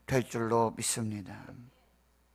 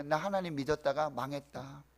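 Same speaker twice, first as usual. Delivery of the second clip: resigned lament. Acted. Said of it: "편하게 말씀드렸지만 이 말이 이 말이에요".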